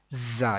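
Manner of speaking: زا begun with a firm, held buzzing z; hard Z. Shown as a demonstration. Teacher contrasts two letters, firmly buzzed زا. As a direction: lean hard on the z of زا. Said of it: "سختی سے پڑھیں گے".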